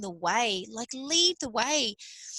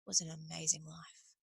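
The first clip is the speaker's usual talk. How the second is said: content reflection; 4 semitones lower, 6 dB quieter than usual. Pretend. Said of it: "get to the end of your life and be like".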